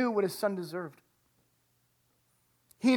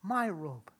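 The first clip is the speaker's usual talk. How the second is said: louder, higher urgent call to servants; 4 semitones higher, 7 dB louder, slower than usual. Retold or imitated. Father calling servants for the robe, loud and urgent. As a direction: shout the order across the house. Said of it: "he yells out to his servants".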